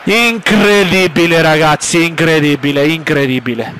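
stunned disbelief fading. Real, not acted. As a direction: let the disbelief sink away. Disbelief after missed chance, fading.

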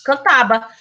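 Cantaba said with a clear b; Spanish b. Shown as a demonstration. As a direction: correct it to Cantaba with b. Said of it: "eu errei".

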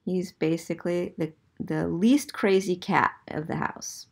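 ordinary delivery

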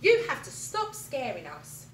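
Parrot's condition. Acted. Parrot sets terms for Alan, high parrot voice. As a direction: squawk the condition firmly. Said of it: "said Parrot".

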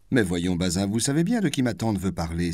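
indignant. Acted. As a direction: scold her husband. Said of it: "s'écria la duchesse avec indignation".

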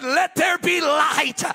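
slow, booming proclamation; voice of God. Acted. Preacher acts God speaking creation, slow and loud. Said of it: "God stood up, uh, and said".

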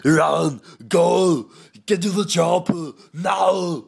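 Arnold Schwarzenegger. Shown as a demonstration. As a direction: yell urgent orders, each one a burst. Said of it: "a bit of an Arnold Schwarzenegger impression".

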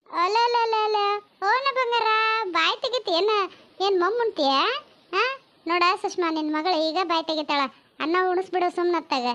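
put-on high, singsong baby talk; aunt cooing at baby. Aunt fusses over the baby girl, playful cooing. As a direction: coo playfully to an infant, pitched high.

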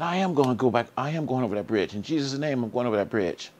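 a mild mock yell of defiance; retold scream. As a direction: cry it out high and defiant, declaring in Jesus' name. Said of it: "I screamed out".

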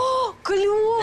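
громко и медленно от радости; восторженное «клёво»; восторженно. Acted. Радостный возглас. (радостный возглас)

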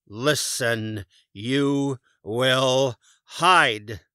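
slow, loud, drawn-out growl; growled order. A narrator's reading. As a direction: drag out the threat. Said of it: "Boris growled".

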